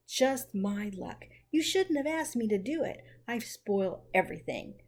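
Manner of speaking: a touch of a groan, regretful; sorry and rueful, lightly groaning; understated remorseful groan; mild groan. Acted. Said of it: "groaned poor Jo".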